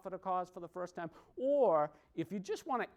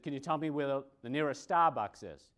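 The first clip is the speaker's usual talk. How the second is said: Boston r-less Starbucks, said Stabucks; Boston accent. Retold or imitated. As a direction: drop the r in Starbucks, Boston style. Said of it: "I don't say marketing like you say marketing".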